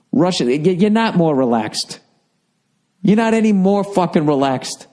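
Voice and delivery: heated rant. Real, not acted. Ranting at the European.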